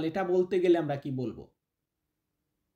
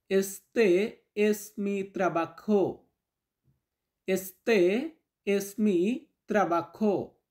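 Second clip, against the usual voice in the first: very slow and drawn out; slow teaching model; much slower than usual. Shown as a demonstration. Teacher modelling Spanish for students, very slow. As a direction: lay each word down for learners. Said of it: "teacher models phrase".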